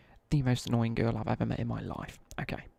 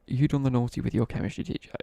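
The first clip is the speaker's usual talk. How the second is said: mock accusation; 6 dB louder than usual. Real, not acted. Reading a chat accusation.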